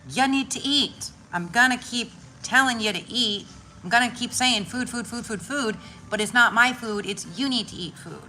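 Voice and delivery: nagging cat voice. Retold or imitated. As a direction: repeat it like a pushy cat. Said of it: "she's telling me".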